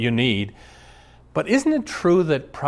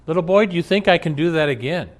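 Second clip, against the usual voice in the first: showman calling out; 5 semitones higher, faster than usual. Retold or imitated. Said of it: "says in front of everyone".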